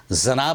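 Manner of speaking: 'जनाब' starting with z instead of j; overcorrected mispronunciation. Shown as a demonstration. People trying to sound Urdu, mispronounced. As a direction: say 'जनाब' with a buzzing z. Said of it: "जो गलत है".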